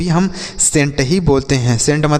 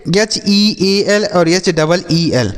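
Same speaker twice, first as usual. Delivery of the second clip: slow spelling out; much slower than usual. Shown as a demonstration. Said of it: "इसे हम पढ़ेंगे हील".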